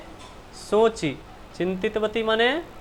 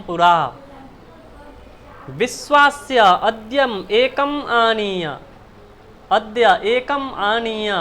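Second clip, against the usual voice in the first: verse recitation. Acted. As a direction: recite the shloka to the class. Reads Sanskrit verse aloud.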